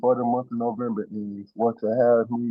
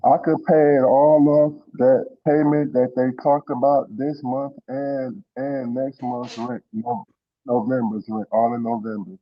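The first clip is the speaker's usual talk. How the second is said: muffled. Real, not acted. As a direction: voice muffled by a bad mic. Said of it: "you're muffled again".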